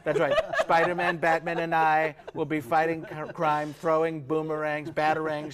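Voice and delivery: lightly voiced boastful Trump; Trump impression. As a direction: brag big about making everything great.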